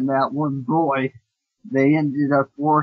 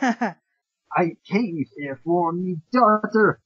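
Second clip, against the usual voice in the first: pirate voice; 3 semitones higher, slower than usual. Acted. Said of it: "I'm gonna start giving a pirate voice for Raichu".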